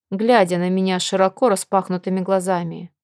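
usual speaking voice

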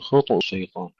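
خطو الشيطان with ط echoed; bounced ta. Shown as a demonstration. Teacher contrasting readings for students, bounced ta in خطو. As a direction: pop the ط in خطو. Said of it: "فنقلقل الطاء".

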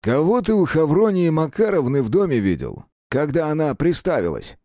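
loud, sharp interrogation. A narrator's reading. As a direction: snap the question at him. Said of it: "резко спросил Терентьев". (резко и громко)

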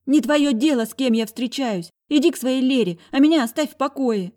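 high, loud defiant shout; high girl's shout, trying to break free. A narrator's reading. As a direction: scream it while struggling. Sister keeps shouting.

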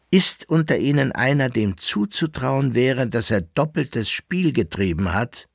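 insistent master voice; urgent patron. Acted. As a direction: make him weigh every man. Barvitius urges Georg to think.

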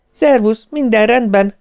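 high, breathless greeting; panting. A narrator's reading. Wife has rushed to the phone to her husband, panting. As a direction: pant the greeting after running to the phone.

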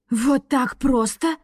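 slow, sceptical rector; doubtful. A narrator's reading. Rector doubting the girls' story, slow and sceptical. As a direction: question it slowly, unconvinced. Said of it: "усомнился ректор".

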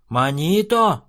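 high, loud indignant shout; dwarf shouting. A narrator's reading. Dwarf to chief, loud high shout. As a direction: yell the name in offence. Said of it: "закричал карлик".

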